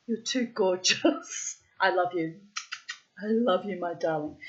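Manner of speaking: tender self-talk. Retold or imitated. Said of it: "This is how I talk to myself".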